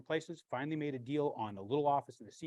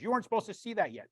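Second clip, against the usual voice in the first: contractor's voice; 10 semitones higher, 9 dB louder than usual. Retold or imitated. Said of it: "He goes".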